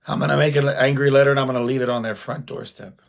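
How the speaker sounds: fast, mock-indignant rant; imitating angry wife. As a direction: rattle it off like a fuming wife. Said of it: "she's just mad".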